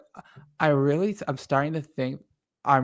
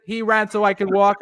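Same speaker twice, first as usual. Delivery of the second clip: put-on higher Irish-accented quote retried; 5 semitones higher, 5 dB louder than usual. Retrying the winner's quote for friends, in an Irish accent. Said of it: "You got the accent down kinda decent".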